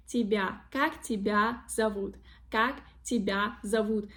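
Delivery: тебя with soft B running into A; soft sound, no Y. Shown as a demonstration. Teacher drilling the correct question, soft B in тебя. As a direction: say тебя without a break before A. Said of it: "There is no".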